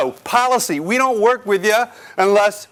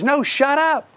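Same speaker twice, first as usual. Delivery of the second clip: mock amazed shout; 7 semitones higher, slower than usual. Lady's amazed reply retold.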